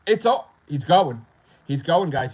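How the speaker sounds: high, loud mock taunting; mock gloating viewers. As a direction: taunt like a gleeful troll. Mocking viewers gloating he's quitting.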